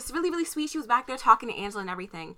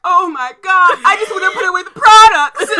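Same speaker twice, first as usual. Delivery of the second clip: high, loud, whiny mock panic; comic panic; 10 semitones higher, 15 dB louder than usual. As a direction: wail it like an overwhelmed employee, breaking into laughter. Acts out own panicked reaction.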